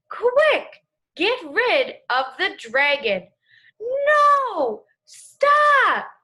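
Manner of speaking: expressive read, big rise on the questions, shouted stop at the end; with emotion. Shown as a demonstration. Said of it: "The second time was so much better because I was reading with emotion".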